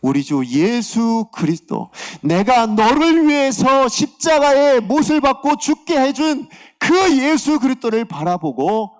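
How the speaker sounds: slow, building proclamation, high and loud; drawn-out, full-voiced preaching crescendo; God's proclamation. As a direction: declare it as God with mounting fervour. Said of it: "하나님께서 하셨던 말씀은".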